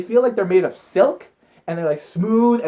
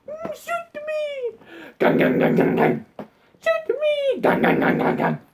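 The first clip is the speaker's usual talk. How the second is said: mock despair; slower than usual. Melodramatic despair over the game.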